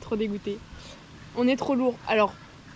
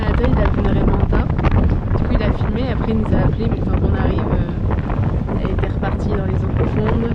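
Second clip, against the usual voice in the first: loud, raised voice against the wind; calling out over the wind on a boat; shouting over wind; 6 dB louder than usual. Real, not acted. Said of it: "J'espère que vous m'entendez parce qu'avec le vent". (parler fort pour couvrir le vent)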